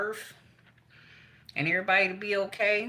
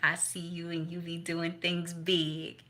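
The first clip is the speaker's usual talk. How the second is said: slow, quiet, lightly voiced old great-grandmother; a hint of a gentle old grandmother speaking slowly; great grandmama voicing; 3 dB quieter, slower than usual. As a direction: ease into a slow, hushed elder greeting. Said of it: "great grandmama said".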